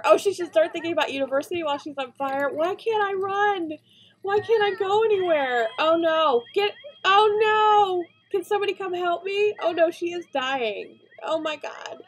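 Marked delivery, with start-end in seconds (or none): 2.5-12.0 high, loud and desperate; shouting for help, high and loud; frantic panic. Real, not acted. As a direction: plead in real alarm. Trying to save burning sim.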